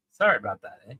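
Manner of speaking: attempted Canadian accent, ordinary "about"; a hint of Canadian in the apology. Shown as a demonstration. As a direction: try a light Canadian accent. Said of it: "do a Canadian accent".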